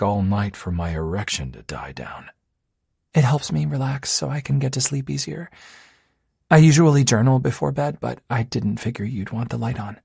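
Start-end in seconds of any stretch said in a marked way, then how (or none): 3.1-10.0 put-on higher, bright-eyed young woman; lightly voiced earnest girlfriend. Dorothy's lines voiced by narrator.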